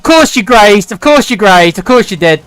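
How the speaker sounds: loud, frustrated ranting at the game; furious gamer groan; exasperated outburst. Real, not acted. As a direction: vent at the dice, loud. Frustrated at a graze result.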